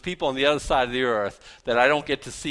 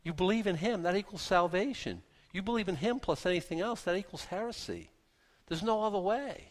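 softer, reassuring explanation; 4 semitones higher, 6 dB quieter than usual. Real, not acted. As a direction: ease off and speak gently. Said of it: "I'm trying to sound soft".

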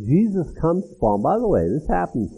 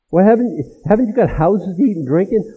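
louder, rising rebuke; rebuking; 5 semitones higher, 5 dB louder than usual. Acted. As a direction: demand it of them in disbelief. Preacher repeats the rebuke.

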